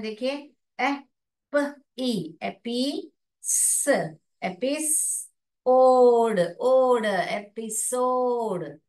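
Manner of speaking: एपी स ओड blended slowly into एपिसोड; sounding out. Shown as a demonstration. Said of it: "देखिए एपिसोड जैसा word हम पढ़ पा रहे हैं". (ध्वनियाँ जोड़कर पढ़ना)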